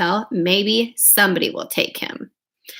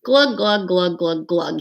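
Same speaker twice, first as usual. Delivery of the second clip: fish glugging; 4 semitones lower than usual. Acted. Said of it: "he mouths".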